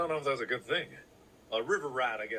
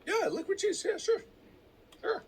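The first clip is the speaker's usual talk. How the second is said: sarcastic. Real, not acted. Sarcastic high agreement.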